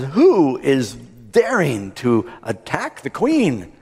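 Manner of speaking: slow, emphatic kingly indignation; outraged demand. Acted. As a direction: draw it out as an affronted king. Outraged king demands the culprit.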